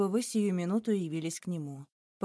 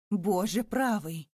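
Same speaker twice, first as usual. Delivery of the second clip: stunned; slower than usual. A narrator's reading. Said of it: "проговорил Зюдерланд, совершенно ошеломлённый".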